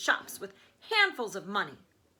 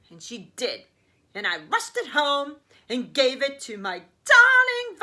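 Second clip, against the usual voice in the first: loud, pitched-up blustering businessman; boastful rich father; 2 semitones higher, 7 dB louder than usual. Acted. Mister Salt brags to the newspapermen, loud and blustering. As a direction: brag like a pompous tycoon. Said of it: "he said".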